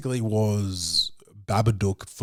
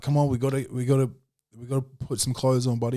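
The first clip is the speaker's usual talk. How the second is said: a touch higher coaxing; coaxing parent; 5 semitones higher, 3 dB louder, faster than usual. Retold or imitated. Dad voicing himself coaxing son into clothes. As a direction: gently nudge a kid along.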